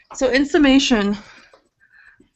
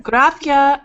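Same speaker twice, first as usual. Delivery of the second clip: put-on Spanish accent; 4 semitones higher, 4 dB louder than usual. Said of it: "she'd be like".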